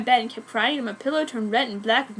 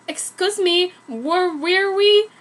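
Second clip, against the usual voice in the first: slow, higher sarcastic drawl; mocking villain; 6 semitones higher, 5 dB louder, slower than usual. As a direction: interrupt them mockingly. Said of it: "laughed Buffy".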